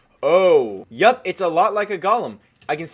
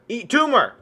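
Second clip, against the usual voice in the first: battle cry; 5 semitones higher, 5 dB louder than usual. Real, not acted. Firing tumor weapon at mob.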